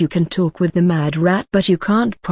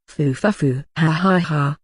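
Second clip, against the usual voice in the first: maniacal laugh. Acted. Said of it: "I am looking for some maniacal laughter".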